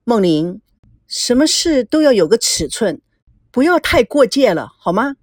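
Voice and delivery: understated stern reproof; displeased. Acted. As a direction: caution a friend with mild displeasure. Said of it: "何木星很不高兴地说". (有些不高兴地告诫)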